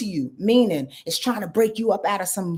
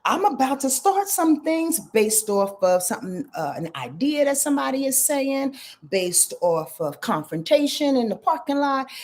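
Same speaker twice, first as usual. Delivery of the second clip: higher, panicky voice of the Virgo sign; 6 semitones higher than usual. Acted. Reader voicing a panicked Virgo, high and alarmed. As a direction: play the flustered Virgo bracing for trouble. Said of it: "the Virgo is like".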